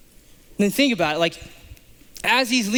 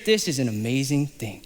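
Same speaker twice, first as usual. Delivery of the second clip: lower, softer dry "This is an amazing thing"; dry sass; 5 semitones lower, 3 dB quieter than usual. Retold or imitated. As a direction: say "amazing" deadpan and quiet. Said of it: "The sassiness goes up a bar".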